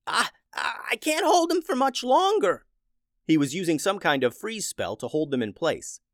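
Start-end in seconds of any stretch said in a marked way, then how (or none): 0.1-2.7 high, straining little chicken voice; gasping strain. A narrator's reading. Bob holding the freeze spell, high straining gasps. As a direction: gasp it out, barely holding on. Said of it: "and he gasped".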